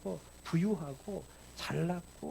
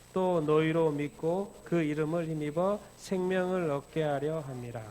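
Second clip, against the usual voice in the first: slow, measured Bible reading; solemn unison reading; scripture reading; slower than usual. Acted. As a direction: read it deliberately with the church. Reads scripture aloud together.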